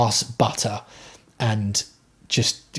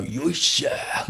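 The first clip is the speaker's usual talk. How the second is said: Japanese exercise grunt; 2 semitones higher, 6 dB quieter than usual. Retold or imitated. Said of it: "squats like a Japanese guy".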